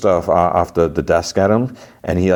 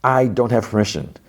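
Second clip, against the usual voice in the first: higher, oily salesman patter; snake oil salesman; 7 semitones higher than usual. Retold or imitated. Salesman delivering McLean's message, higher salesman voice. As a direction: pitch it like a sly salesman. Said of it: "He's like".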